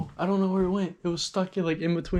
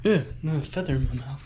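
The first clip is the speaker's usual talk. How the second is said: ordinary talk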